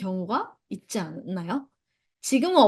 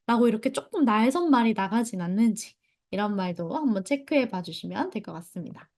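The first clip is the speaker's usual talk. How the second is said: ordinary talk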